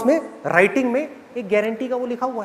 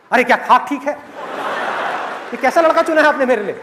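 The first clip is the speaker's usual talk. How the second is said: angry daughter; 2 semitones higher than usual. Acted. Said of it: "इतने गुस्से में क्यों है".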